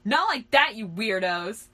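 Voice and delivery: high, loud indignant cry; screech. Acted. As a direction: screech in protest, hardest at the start. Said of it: "he screeched".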